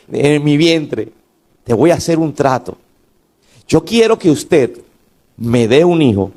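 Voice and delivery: low, hushed plea of a grieving mother; pleading prayer. Acted. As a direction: pray lowly, bargaining with God in sorrow. Grieving woman's prayer to God. (mujer estéril suplica a Dios, voz baja y afligida)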